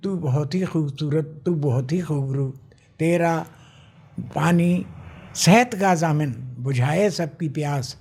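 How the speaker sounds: slow, measured reading of a verse to Bhopal; slow fond ode to his city; poem recitation. Acted. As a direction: recite it like a couplet at a mushaira, slowly. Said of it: "कुछ आप शेर हमारे श्रोताओं को ज़रूर सुनाएं".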